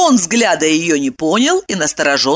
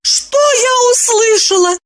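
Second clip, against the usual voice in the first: high, loud, horrified cry; horrified wife exclaims about her husband; horrified exclamation; 3 dB louder than usual. A narrator's reading. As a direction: cry it out in horror. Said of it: "ужасаясь, воскликнула".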